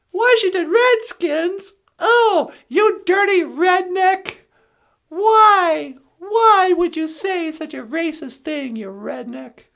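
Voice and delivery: hammed-up Karen wagging a finger; mock outraged Karen. Comic mocks a Karen scolding a redneck, shrill outrage.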